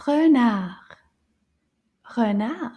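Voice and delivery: renard said the French way, r from the throat. Shown as a demonstration. Teacher repeating renard for the class. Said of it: "Can you find the E sound".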